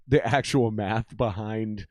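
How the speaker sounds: The actual math behind said slowly and evenly; deliberate repeat. Real, not acted.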